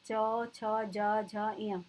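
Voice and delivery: च, छ, ज, झ, ञ sounded separately off the palate; teacher demonstrating palatal च, छ, ज, झ, ञ; palatal consonants demo. Shown as a demonstration. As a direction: recite च, छ, ज, झ, ञ one syllable at a time. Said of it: "तालु से बोले जाते हैं".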